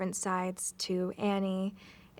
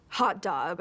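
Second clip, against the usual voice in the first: Brooklyn accent. Shown as a demonstration. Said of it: "really hit the accent when you say".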